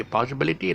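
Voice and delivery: "possibility" with no syllable stressed; unstressed Manglish "possibility"; normal spoken Manglish. Shown as a demonstration. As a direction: say "possibility" evenly, without punching BIL. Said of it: "otherwise they'll just say".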